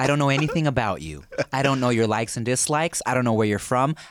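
low-pitched, lecturing condescension; condescending barista. Retold or imitated. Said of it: "Just super condescending".

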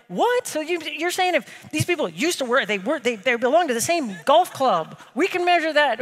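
high, amazed banker voice; mock amazement. Vice presidents seeing the feature, high mock amazement. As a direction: play the stunned vice presidents.

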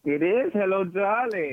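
put-on slow purring old Hollywood hello; breathy vintage purr. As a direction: purr the greeting slowly, sultry. Sultry greeting on phone call.

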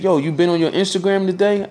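high excited friend voice; imitating friend. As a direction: raise the pitch, eager question. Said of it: "He said".

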